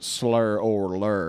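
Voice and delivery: slow Southern drawl on Slur or lure; southern accent. Shown as a demonstration. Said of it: "I did it in a southern accent like that".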